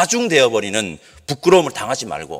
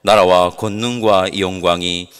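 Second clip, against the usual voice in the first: slow, even congregational recitation; solemn prayer, slow and steady; Lord's Prayer recitation; 6 semitones lower, slower than usual. Real, not acted. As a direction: recite the prayer in unhurried, level phrases, drawing out the amen.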